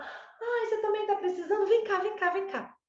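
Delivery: put-on mother calling the jealous older son over, high and affectionate; affectionate mom inviting. Shown as a demonstration. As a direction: sweetly invite him over, pitch way up. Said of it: "Então, você fala".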